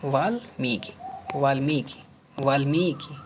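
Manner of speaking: वाल्मीकि split as vaal-mee-ki, long ee; syllable demonstration. Shown as a demonstration. Teacher drilling the word, वाल्मीकि broken into syllables. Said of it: "क्या होता है".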